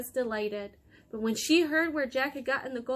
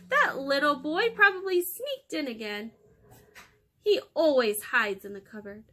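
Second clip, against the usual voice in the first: giant's wife; 3 semitones higher, 5 dB louder than usual. Acted. Wife blames the boy.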